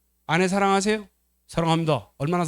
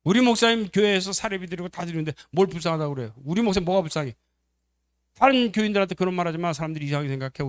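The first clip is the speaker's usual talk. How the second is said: higher-pitched mock-offended protest; indignant; 4 semitones higher than usual. Church member defends the pastor's standing to another, indignant. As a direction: scold someone for pitying, acted.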